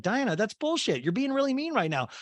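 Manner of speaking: high-pitched mock scolding; Garcelle impression. Garcelle confronts Diana, high mock scolding. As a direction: pitch the rebuke way up. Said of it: "And Garcelle's like".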